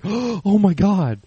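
high, loud, drawn-out horrified reaction; mock shock. Storyteller imitates people he fooled, shocked. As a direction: imitate a listener falling for the tall tale.

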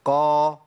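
"قا" held long, heavy but without itbaq; heavy Qaf for contrast. Shown as a demonstration. Teacher contrasting it with Sad, lesser tafkhim. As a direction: sustain "qaa" with a back, open heaviness. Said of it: "غير لما أقول".

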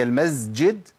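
المسجد said with a buzzing z for the seen; seen voiced as zay. Shown as a demonstration. Teacher showing pupils a common mistake, المسجد said with a z. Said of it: "في ناس بتقول المسجد".

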